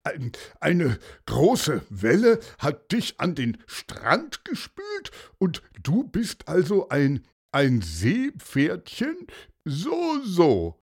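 halting, lightly voiced doubt; sceptical commissioner. A narrator's reading. Commissioner checking the seahorse's story, lightly sceptical.

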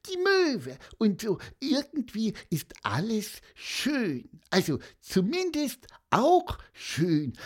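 high squeaky little voice, earnest; Pieper. A narrator's reading. Little pupil answering both teachers' question, squeaking. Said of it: "piepste Pieper".

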